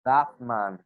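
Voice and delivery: "That man" said as "thap man"; changed t sound. Shown as a demonstration. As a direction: close the lips on the t of "That". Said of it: "We will change it to".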